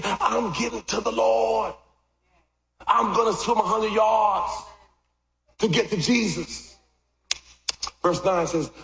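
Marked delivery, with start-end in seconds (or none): 0.0-6.7 raised, slow, determined call; preacher voicing Peter's urgent cry; eager shout. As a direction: shout it like a man diving in, set on reaching the Lord. Peter rushing to Jesus.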